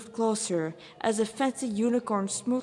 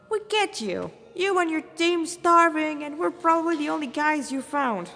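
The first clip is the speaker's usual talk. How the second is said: laid-back Rasta hunter; 7 semitones higher, 4 dB louder than usual. Acted. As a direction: talk to the demon like a chill Rasta.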